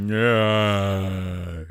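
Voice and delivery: drawn-out groaning yeah; sustained, loud "yeah" groan; long loud groan. Pretend. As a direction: groan it out at length.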